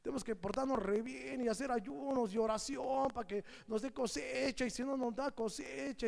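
hammed-up complaint; mock complaining people. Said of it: "Y decían".

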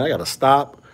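usual speaking voice

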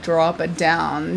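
slow, low creaky voice; vocal fry. Shown as a demonstration. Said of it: "I do this thing".

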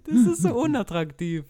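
high, loud, slow dragged-out disgust; mock disgust. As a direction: stretch it out, high and loud, grossed out. (übertrieben angewidert, hoch, laut und langsam)

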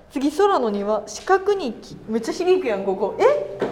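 loud excited calls echoing off walls; testing the echo in a stone room; cathedral echo. Real, not acted.

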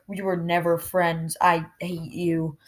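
measured retold rejection, drawn out a little; serious retort. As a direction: imitate someone turning serious. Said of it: "Alexa got all serious".

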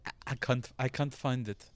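lightly put-on Russian accent; mock Russian accent. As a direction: play her with a touch of Russian. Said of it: "She's Russian".

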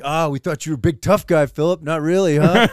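teasing dad, lightly imitated; retold razzing. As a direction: goad the kid with a mock-taunting lilt. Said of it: "my dad's razzing".

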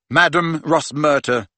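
usual speaking voice

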